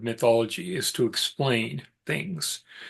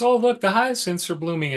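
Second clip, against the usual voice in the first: higher-pitched voice of an admiring wife; lightly imitated delight; 6 semitones higher than usual. Wife points out flowers to her husband, mild imitated delight. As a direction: lightly act out spotting blooms.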